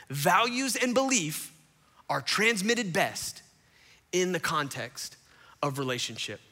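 slow, phrase by phrase, with pauses; deliberate, spaced-out key point; emphatic restatement. Real, not acted.

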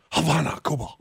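put-on reporter over-pronouncing in a Spanish accent; exaggerated Spanish place-name pronunciation; mock Spanish accent. Host mocking reporters' sign-offs, put-on Spanish accent. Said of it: "reporting in from, like, Havana, Cuba".

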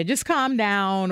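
drawn-out slow calm down. Retold or imitated. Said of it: "More dismissive or less dismissive".

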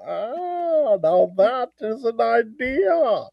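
slow, swooping villain voice; hammed-up villain warming to a scheme; drawn-out "ah", theatrically pleased; Bane. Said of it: "do Bane doing the Cookie Monster".

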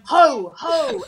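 high, loud little calls of ho; toddler's excited call, copied by parent; imitating a toddler. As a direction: mimic a small child calling out. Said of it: "And she's going".

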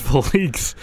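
Felix with a long stressed ending, fuh-LEEKS; fuh-LEEKS pronunciation. Shown as a demonstration. Co-host trying out the other reading, Felix as fuh-LEEKS. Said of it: "is it Felix or Felix".

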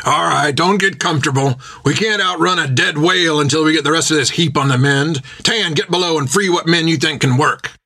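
lightly voiced skipper directing the crew; captain giving orders. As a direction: keep them working, brisk and firm.

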